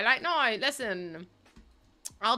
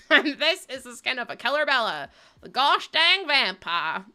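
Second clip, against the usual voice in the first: put-on Southern accent; 2 semitones higher, 4 dB louder than usual. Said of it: "the parody in the Southern accent".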